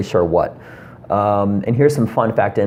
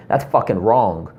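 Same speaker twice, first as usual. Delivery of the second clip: blunt callout; slower than usual. Shown as a demonstration. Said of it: "You don't need to say it like that".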